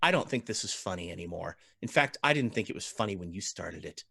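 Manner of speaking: stern nun voice. Acted. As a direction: scold them quickly and coldly. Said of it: "and she says".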